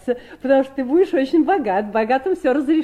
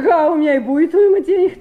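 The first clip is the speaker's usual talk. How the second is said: louder, laughing through the words; laughing retort; 4 semitones higher, 7 dB louder, faster than usual. Acted. Sister answers brother about money, laughing and louder. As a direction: toss it back with a laugh.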